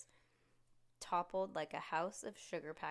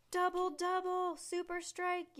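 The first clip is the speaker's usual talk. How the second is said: ecstatic announcer yell; 11 semitones higher, 6 dB louder than usual. Acted. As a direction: hype the double strike to the crowd. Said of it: "yelled the guy".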